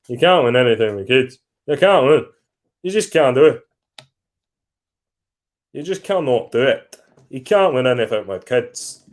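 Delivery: hammed-up Scottish impression of a pundit; a shaky go at a Scottish accent; bad Scottish accent. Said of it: "shocking, shocking accent".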